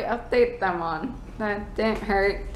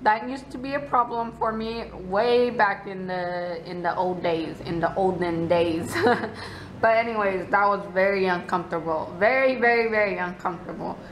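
muffled behind palm; speaking through fingers; hand over mouth. Real, not acted. Seen 2: Hand fully covers mouth throughout; lowered by +19.6; references uncovered.

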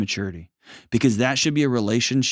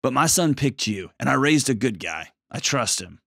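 a higher, gently accepting mother-in-law voice; lightly voiced, pitched-up in-law giving a warm welcome; welcoming mother-in-law; 4 semitones higher than usual. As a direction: speak as a mother-in-law who chooses to embrace her son's wife. Voicing ideal mother-in-law's welcome.

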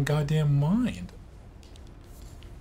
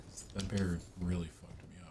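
whispering; 4 semitones lower, 8 dB quieter than usual. Real, not acted. Whispered aside.

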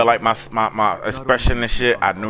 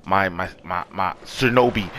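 low, soft mock lady's wake-up call; lowered and softer, hint of a game character cooing; imitating the game lady waking his shinobi, low and soft; 9 semitones lower, 6 dB quieter than usual. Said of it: "lady... said".

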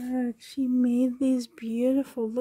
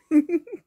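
loud, high laugh close to crying; tearful laugh; 4 semitones higher, 7 dB louder than usual. Real, not acted. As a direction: overcome laugh, half sob. Overcome with joy.

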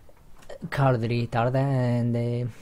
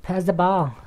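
high, louder demand; calling to teammate; 7 semitones higher, 5 dB louder than usual. Real, not acted. Player demanding the ball from teammates, insistent call. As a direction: call out sharply for the pass.

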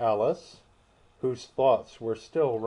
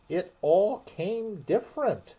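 thoughtful; 8 semitones higher than usual. A narrator's reading. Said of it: "repeated thoughtfully".

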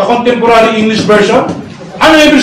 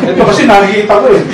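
laughing; 3 semitones lower, much faster than usual. Real, not acted. Laughing through explanation.

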